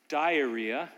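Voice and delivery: Diarrhea said slowly with a rise; word comparison. Shown as a demonstration. Pastor comparing two words for a joke, slowly. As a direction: stretch out Diarrhea as a setup. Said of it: "Sounds kind of the same".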